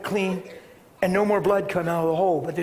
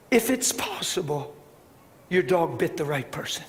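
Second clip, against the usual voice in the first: gentlest smile; 5 semitones lower, 6 dB quieter than usual. Retold or imitated. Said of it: "I said it with the biggest, gentlest smile".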